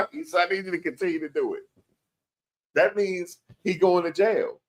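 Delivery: high-pitched, quick words straight out of a laugh; real amusement squeezing the voice up high. Real, not acted. Retelling the judge's remark to viewers, laughing.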